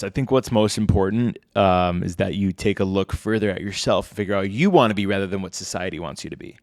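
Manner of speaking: lightly put-on manly voice; a hint of a masculine put-on. Shown as a demonstration. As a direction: speak as if slightly masculinizing your voice. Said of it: "turn on my masculine voice".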